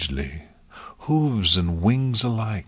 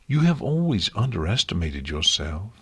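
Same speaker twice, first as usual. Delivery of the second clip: plain reading voice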